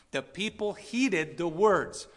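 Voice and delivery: very slow, deliberate "The people heeded the words"; slow emphatic. Acted. Pastor repeating his point to the church, very slow. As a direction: space every word out.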